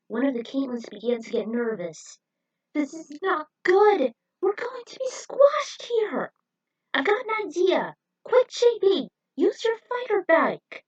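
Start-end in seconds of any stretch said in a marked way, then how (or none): 2.7-10.8 high, loud panicked cries; panicked shout. Acted. Caitlin panicking as the walls close in, loud and high. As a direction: yell for help as walls close in. Trapped between closing walls.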